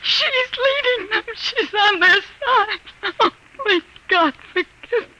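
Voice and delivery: weep out the prayer; anguished tearful pleading; crying prayer. Acted. Wife grieves daughter sided with invaders.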